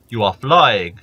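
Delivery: loud angry giant roar; giant shouting. Acted. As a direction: giant bellowing in alarm. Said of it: "says the giant".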